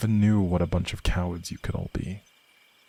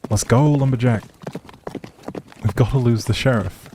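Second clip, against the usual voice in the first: urgent call; 3 semitones higher, 3 dB louder than usual. Acted. Fleeing the sheriff on horseback.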